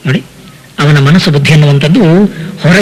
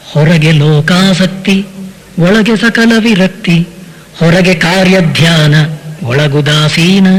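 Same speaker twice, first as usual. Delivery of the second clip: slow, measured poem chant; slow recited devotional poem; verse recitation; slower than usual. Acted. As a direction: lay out each line of the verse deliberately.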